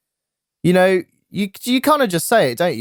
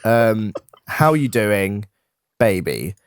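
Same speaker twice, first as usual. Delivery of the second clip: slow, low, flirty greeting; flirty driver; 5 semitones lower, slower than usual. Retold or imitated. Delivery driver flirting with Nick at the door, slow and low. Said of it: "They're like".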